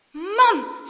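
loud, high outburst; emphatic, shaken relief; relieved exclamation. A narrator's reading. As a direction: let out the fright.

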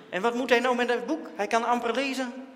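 loud, high sneering complaint; scornful outburst. A narrator's reading. Dirk sneering to Jan about Daantje's book, loud. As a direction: scoff at the prize.

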